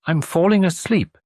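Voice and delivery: plain. Retold or imitated. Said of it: "you says in a dreamy voice".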